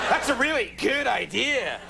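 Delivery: sarcastic quotes. Shown as a demonstration. Host demonstrating his sarcastic quote gesture, mock-approving sarcasm. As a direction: stretch it out in audible air quotes. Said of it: "I was doing these sarcastic space quotes".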